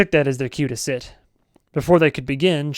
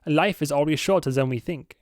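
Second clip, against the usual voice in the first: put-on Swedish accent. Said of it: "I know it's more German".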